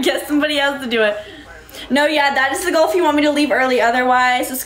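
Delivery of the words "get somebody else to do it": fast, laughing "Get somebody else to do it"; laughing repeat. Real, not acted. Streamer repeats her refusal to the viewer, quick and laughing. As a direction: rattle it off through laughter.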